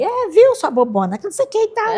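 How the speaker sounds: mother calling her daughter a silly fool; teasing mother. Retold or imitated. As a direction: needle her daughter playfully. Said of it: "Ela era assim".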